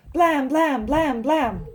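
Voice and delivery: four loud, punched, even beats; pounding knocks. A narrator's reading. They knock on the door at home, pounding words. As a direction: thump out each word like a fist on wood.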